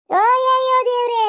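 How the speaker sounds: loud, high, drawn-out outcry; exasperated wail. Acted. Mother-in-law fed up with the girl's defender, exasperated wail. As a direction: stretch out an indignant cry to heaven.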